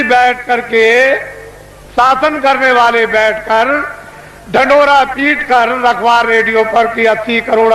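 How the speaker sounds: booming orator addressing a crowd; booming political rally speech. Acted. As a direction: proclaim it to a packed rally.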